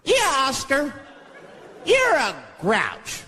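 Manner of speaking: put-on high, drawn-out kids' chant; sing-song taunt like a chorus of kids.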